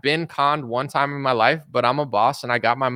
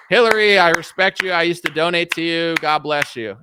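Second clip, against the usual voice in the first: mock Trump; 3 semitones higher, 4 dB louder than usual. Trump voiced praising Hillary.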